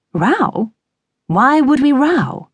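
high, baffled questioning; totally bemused. A narrator's reading. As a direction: ask it as if the very idea were alien. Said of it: "totally bemused and said".

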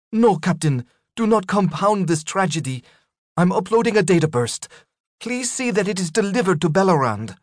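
calm final orders from a doomed captain; female captain voice. Acted. Legrand's final calm plea.

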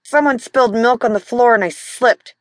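strained, pushed out between clenched teeth; through gritted teeth. Acted. Hurt husband explaining his fall to his wife, through gritted teeth. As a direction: grit your teeth and force it out. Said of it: "he said through gritted teeth".

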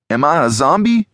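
high question climbing at the end; wondering question. A narrator's reading. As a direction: ask it unsure, pitch climbing. Tagged Lucas asks Alex.

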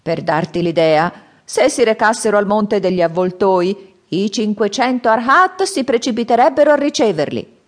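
high, loud, slowing at the end; grave old man's warning. Acted. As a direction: warn the boy, weighing each word. Old man boasts of demons. (vecchio che ammonisce, voce alta e forte)

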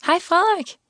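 high-pitched, sudden hello; blurted greeting. A narrator's reading. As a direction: blurt it out before you can stop. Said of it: "før det fløj ud af hende". (udbrud, der ryger ud i lyst toneleje)

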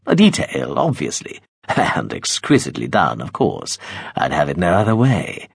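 lightly voiced, smiling threat with a short laugh; a hint of a cruel master sweetly promising; smiling menace. Veppers coaxing the girl with smiling threats, light menace. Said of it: "She thought she could hear him smiling".

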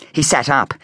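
ordinary delivery, nothing marked

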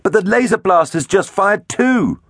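high-pitched alarmed cry; gasped alarm. A narrator's reading. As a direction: blurt the bad news in a high voice. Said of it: "Gypsy gasped".

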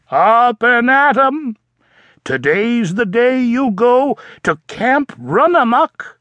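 rally him out of bed; cheerful wake-up. Acted.

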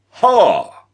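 loud, high bark of scorn; roaring giant. A narrator's reading. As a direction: roar it out like a giant. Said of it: "the giant roared".

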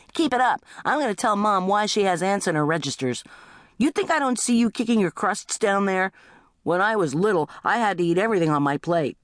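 high-pitched sibling threat; threatening teenager. Acted. Teenager threatening to tell Mom, high aggrieved nagging. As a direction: nag like an aggrieved older sibling.

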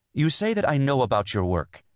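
high-pitched, tense opening. A narrator's reading. Wife starts answering husband about his work, tense. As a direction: begin carefully, strung high. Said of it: "she began tensely".

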